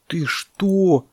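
high, startled objection; frightened elephant calf. Acted. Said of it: "испугался слонёнок".

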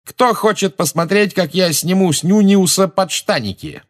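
high, taunting announcement; rally the onlookers, pitched right up; loud jeering call; calling to a crowd. A narrator's reading. James calls to the onlookers.

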